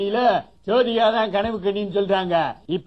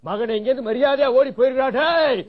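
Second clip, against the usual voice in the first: angry shout; 2 semitones higher than usual. Acted. Shooing someone away angrily.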